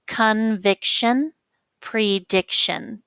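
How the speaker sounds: "Conviction, prediction" drawn out slowly, leaning on VIC and DIC; slow teacherly "Conviction, prediction" with VIC and DIC marked; stress demonstration. Shown as a demonstration. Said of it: "That's where your stress is".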